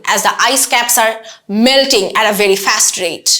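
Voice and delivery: slow, deliberate dramatic hook; dramatic presentation opening. Shown as a demonstration. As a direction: open the speech dramatically, phrase by phrase with pauses. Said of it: "এটা আমি খুবই dramatic ভাবে শুরু করলাম". (নাটকীয় ভঙ্গিতে ধীরে বক্তৃতার শুরু)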